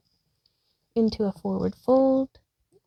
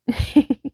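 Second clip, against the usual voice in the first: laugh; 5 semitones higher, 9 dB louder than usual. Real, not acted. Forgot left and right.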